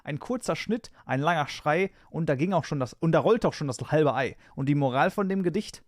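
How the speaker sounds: reciting a bawdy rhyme with relish; rhythmic verse, punchline at end; poem recital. Acted. Recites second German poem.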